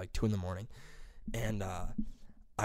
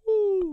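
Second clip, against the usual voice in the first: high, drawn-out owl "ooh"; owl hoot; 3 dB louder than usual. Retold or imitated. Man imitating what he hears at night, owl hoot. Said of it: "all I hear is a".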